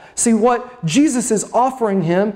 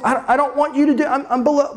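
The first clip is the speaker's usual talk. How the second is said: quick, higher-pitched stammered protest; fading humility; 5 semitones higher, faster than usual. Acted. Peter declining the washing from Jesus, humility fading. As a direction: stammer a half-hearted humble refusal, quickly. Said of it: "the humility kind of fades away".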